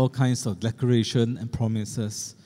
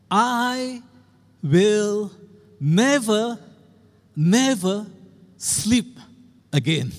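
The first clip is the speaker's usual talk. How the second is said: imitating child's shout; 6 semitones higher, much slower than usual. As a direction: replay the little girl's furious vow, hammed up. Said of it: "And she shouted".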